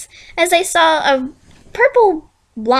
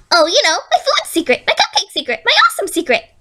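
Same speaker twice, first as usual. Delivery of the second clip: gleeful menace; 7 semitones higher, faster than usual. Acted. Villain gleeful about secret.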